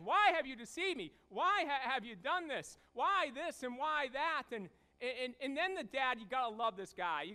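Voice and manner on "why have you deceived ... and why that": mild retold rage. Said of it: "He's enraged".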